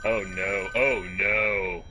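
oh no growing to a shout; panicked oh no shouts; rising panic. Real, not acted. Panic in horror game.

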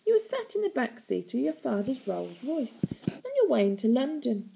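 sing-song auntie telling a tale; bedtime story. A narrator's reading. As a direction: recount it as if lulling a child to sleep. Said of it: "telling a bedtime story".

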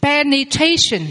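slow Penetration, syllable by syllable; slow model word. Shown as a demonstration. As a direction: spell it out slowly: Penetration. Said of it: "Quý vị đọc vào phần từ vựng".

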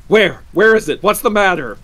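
high, loud, startled questions; jolted awake and calling out in alarm. A narrator's reading. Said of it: "He started up in alarm".

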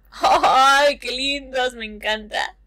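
high, loud gush of delight; excited fangirl coo. Real, not acted. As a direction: coo over how cute they are. Gushing over cute kids.

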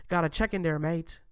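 bad British accent. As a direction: put on a hammed-up, clumsy British accent. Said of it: "I can't even do the British accent".

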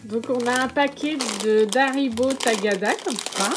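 loud, beaming burst of thanks to the family; calling out her thanks, delighted; excited thanks. Real, not acted. Unboxing a gift parcel, thanking the family: excited and loud.

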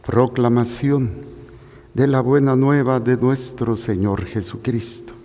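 measured, formal Gospel announcement; liturgical proclamation. Acted. Priest announcing the Gospel of Luke to the congregation, formal proclamation. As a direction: announce the reading solemnly, phrase by phrase.

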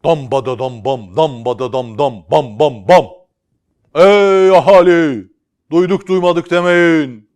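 loud, slow, high crier call; town crier. Acted. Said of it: "Bir tellal bağırıyor".

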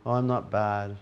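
half-hearted glum muttering; glum grumbling. Retold or imitated. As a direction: moan like you're just getting by. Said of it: "of going".

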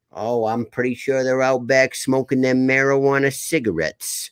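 lightly put-on thick Rhode Island accent. Gram answering where the boys went, Rhode Island accent. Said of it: "do a full podcast in that accent".

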